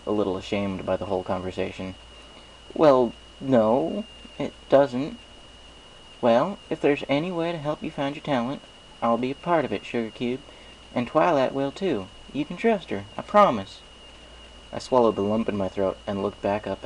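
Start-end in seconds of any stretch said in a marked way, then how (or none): 2.7-13.8 folksy farm pony, friendly and sure; Applejack. Acted. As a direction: play a cheerful country mare with a twang. Applejack's voice in story.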